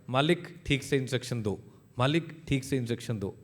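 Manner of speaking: robot voice, level and even, repeating the same line; patient machine saying it twice; calm robot repeat. Acted. Robot calmly repeating its line to its owner, evenly.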